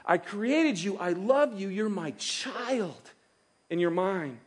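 high, eager "whoa, whoa" from God, easing into tender words; God interrupting. Pretend. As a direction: stop them short, then reassure. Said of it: "but God says".

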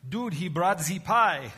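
mock German, dragging the words out; a bad fake German accent, said for laughs. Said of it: "is that the worst German accent?".

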